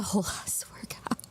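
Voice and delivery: breathy whisper through laughter; whispered laughing. Real, not acted. Laughs mid-sentence, breathless.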